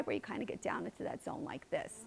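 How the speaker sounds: very quiet, creaky, breathy vocal fry. Explaining the vocal fry to listeners and demonstrating it: vocal fry. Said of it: "the vocal fry".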